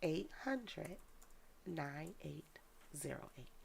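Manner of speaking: slow, measured digits with long pauses; slow repeat. Real, not acted. Repeating the number for viewers with pen and paper, real slow. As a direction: dictate it slowly, group by group. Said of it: "Repeat that number one more time for me".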